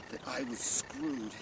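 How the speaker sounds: low, slow and soft; grim deadpan. Acted. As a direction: let it drop like doom. Deadpan doom.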